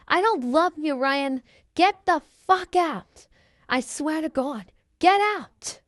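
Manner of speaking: high-pitched acted outburst; angry rejection. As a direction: throw him out, pitch shooting up. Rejects boyfriend, throws him out.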